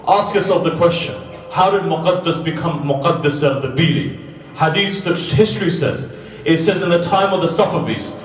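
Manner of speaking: full-force preaching. Acted. Preacher retelling the Muqaddas Ardabili story to mourners, full force.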